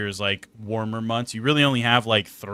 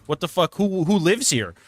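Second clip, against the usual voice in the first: incredulous; 5 semitones higher than usual. Retold or imitated. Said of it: "I'm like".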